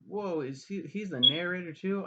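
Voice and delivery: high-pitched, incredulous question; real surprise. Real, not acted. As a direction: caught off guard by a new discovery. Surprised by a fact just noticed.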